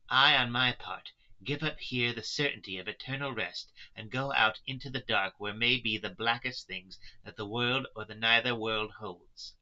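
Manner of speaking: earnest, impassioned Mina. Acted. Mina voiced, facing death.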